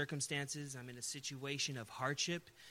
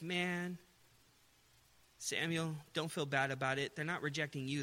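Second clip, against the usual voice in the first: God reassures Samuel, gently; gentle reassurance. Acted. Voicing God comforting Samuel.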